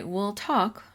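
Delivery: soft and calm, easing the volume down; a quiet, calm, reassuring demo for a frustrated student; calm teacher voice. Shown as a demonstration. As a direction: settle an agitated student gently. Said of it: "you can just calmly say".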